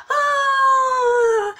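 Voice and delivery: sharp high gasp of delight; a bright little gasp; surprised gasp. Real, not acted. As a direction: gasp as if caught off guard. Gasps at the postcard.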